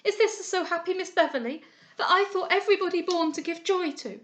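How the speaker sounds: high, loud wailing that keeps climbing; girl lamenting at a bedside, near tears; grieving lament. A narrator's reading. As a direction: pour out grief over her ruined friend. Lament over disfigured friend.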